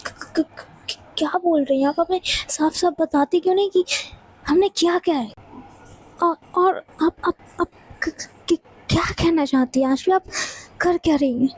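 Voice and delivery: stuttering in fear; frightened stammer. Acted. Riya stammers, scared by Ashvi's threat. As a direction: trip over the first sounds anxiously.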